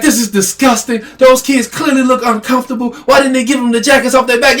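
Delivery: high-pitched mock outrage; outraged commenters. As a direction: imitate indignant online critics. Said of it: "women in the comments like".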